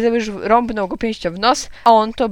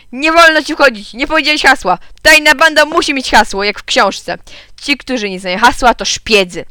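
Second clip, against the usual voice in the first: loud, high-pitched angry outburst; furious; 5 semitones higher, 6 dB louder than usual. A narrator's reading. Gottfried barring Kleofas without the password, furious. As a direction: scold loudly, pitch jumping up. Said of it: "Gottfried był wściekły".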